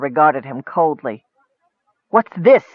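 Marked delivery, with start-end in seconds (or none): 2.1-2.7 demanding. Acted. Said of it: "he demanded".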